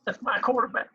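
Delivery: high-pitched mock-crying impression. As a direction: imitate a tearful athlete, pitched high. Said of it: "voice and crying".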